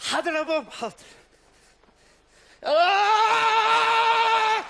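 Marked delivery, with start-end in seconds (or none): 2.6-4.6 long high shocked scream; electric shock scream. Acted. Finger in socket, shocked.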